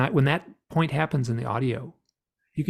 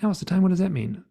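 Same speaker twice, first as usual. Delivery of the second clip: aggravated; 6 semitones higher, faster than usual. Retold or imitated. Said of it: "I was getting kinda aggravated".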